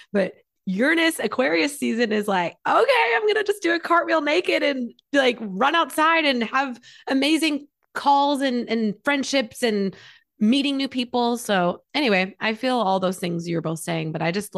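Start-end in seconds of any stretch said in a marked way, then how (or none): 2.7-11.4 excited. Pretend. Voicing Aquarius season excitedly.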